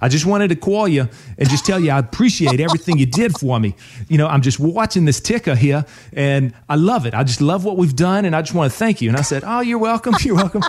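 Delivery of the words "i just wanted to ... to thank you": put-on, attempted Northern accent. Retelling what she said when she called this past week, in a put-on Northern accent. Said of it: "I'm gonna try to do my Northern accent".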